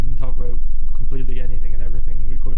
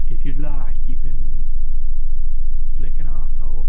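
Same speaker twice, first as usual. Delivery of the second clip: put-on Geordie accent; 4 dB louder than usual. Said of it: "I was trying to do the Geordie accent".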